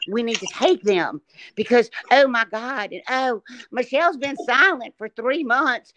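a hint of a preachy Christian woman raising alarm; mimicking her critics as a mild mock preacher; mock televangelist. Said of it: "I'm mimicking these fucking idiots".

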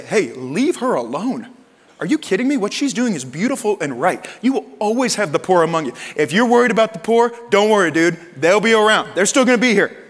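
firm, building rebuke; stern retort. Retold or imitated. Jesus defending the woman to Judas, stern retort. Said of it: "look at him sternly and say".

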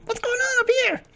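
very high squeaky voice; arriving character's voice. Acted. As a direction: squeak out a question in falsetto.

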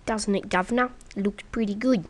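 a light mock British accent. Asking the viewer, in a mock British accent. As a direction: toss it off like a toff, British accent. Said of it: "I'll never talk like that ever again".

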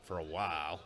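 a slight Southern lilt on for a while; barely there Southern accent, tossed off. Real, not acted. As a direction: slip into a hint of Southern accent. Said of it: "I said it with a southern accent".

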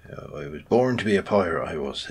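brief hammed-up pirate accent. Player musing on becoming a pirate, in a mock pirate accent. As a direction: growl it out like a pirate, half-joking. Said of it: "I did that stupid accent".

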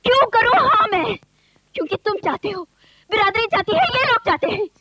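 high defiant protest. Acted. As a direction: throw the refusal back at them. Bride defiantly refuses marriage.

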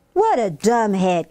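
mild acted yell; yelled insult. Kim insulting her sister, mildly yelled. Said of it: "Kim yelled".

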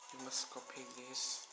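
normal talking voice

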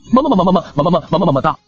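rapid cutesy kissy sign-off; playful sign-off kisses. Acted. Host signing off to viewers with fast, cutesy kisses. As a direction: blow kisses at the audience, fast.

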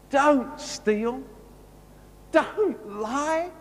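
a hint of a loving God, urging his people; voicing God. God speaking to freed Israelite slaves, lightly voiced and fervent. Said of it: "prefaced by God saying".

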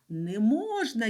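ordinary talk

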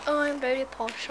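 lightly put-on posh British accent; mock posh British accent. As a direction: imitate a very posh Brit. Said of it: "Everyone thinks I'm British".

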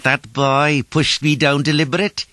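put-on high, loud old man's complaint; high-pitched outraged tattling; indignant hissing accusation. A narrator's reading. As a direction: squawk the accusation like an angry gander. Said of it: "hissing like a gander".

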